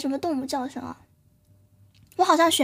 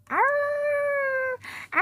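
dog howl; 10 semitones higher than usual. Pretend. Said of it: "这好像是狗的叫声吗".

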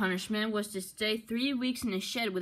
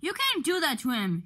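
shouting; 7 semitones higher, 3 dB louder than usual. Acted. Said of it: "shouted Duck".

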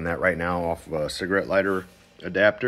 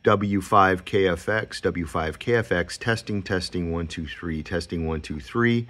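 over walkie talkie. Shown as a demonstration. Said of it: "we'll do this again".

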